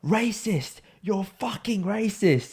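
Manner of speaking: high, drawn-out retold accusation; mock accusation. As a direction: imitate an indignant drunk accuser. Acting out drunk man's accusation.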